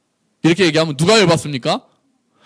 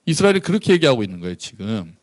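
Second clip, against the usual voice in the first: ordinary talk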